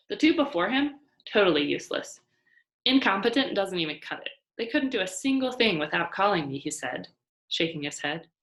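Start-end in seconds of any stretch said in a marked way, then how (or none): 0.1-6.6 louder, dismissive complaint; grumbling boss. Acted. Motel owner grumbling about past managers, louder and scornful. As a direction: scoff at the useless managers.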